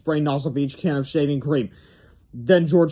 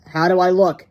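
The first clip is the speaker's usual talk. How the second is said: put-on a bit louder, eager kid voice; kid asking; 3 semitones higher, 7 dB louder than usual. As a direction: show off the new look.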